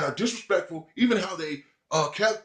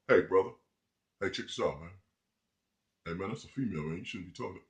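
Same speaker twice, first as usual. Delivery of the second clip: mock meek voice; 7 semitones lower, 7 dB quieter than usual. Imitating a meek guy approaching.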